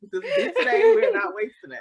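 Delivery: high, laughing, fighting back tears; laughing through tears. Real, not acted. To her friend, refusing to cry today, laughing and teary. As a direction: laugh so you don't cry. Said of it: "So good job on me not crying".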